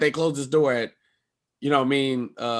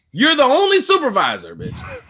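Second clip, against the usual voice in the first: high, loud accusation; indignant yell; 11 semitones higher, 5 dB louder than usual. Retold or imitated. Comic to Delta supervisor who lied, high indignant yell. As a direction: call him out sharply.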